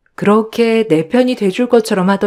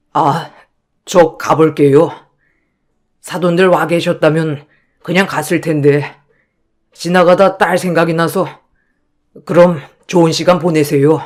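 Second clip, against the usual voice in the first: humble father; 2 semitones lower than usual. Acted. Embarrassed father leaves politely.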